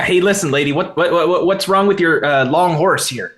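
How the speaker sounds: a lightly voiced blunt little adventurer; gruff questioning.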